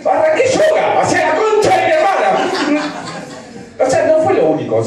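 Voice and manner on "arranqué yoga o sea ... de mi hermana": comic outburst. Acted. Comic bursts out punchline.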